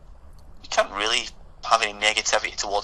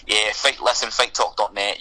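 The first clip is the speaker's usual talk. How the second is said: aggressive Glaswegian accent. Shown as a demonstration. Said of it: "we'll stick with the Glaswegian just now".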